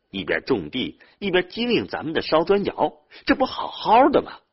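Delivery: loud, high, insistent scolding; exasperated arguing. Acted. Older brother talking younger one out of odd-job labour, exasperated. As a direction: argue him down, climbing to a high, loud finish.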